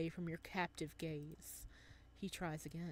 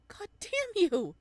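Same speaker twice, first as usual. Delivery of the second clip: louder, slower, higher curse, dragging it out; angry curse; 13 semitones higher, 12 dB louder than usual. Acted.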